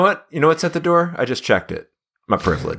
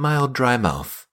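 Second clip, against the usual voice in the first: Keith David voice; much slower than usual. Retold or imitated. Hosts riffing on a drug ad, Keith David narrator voice. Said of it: "the Keith David voice".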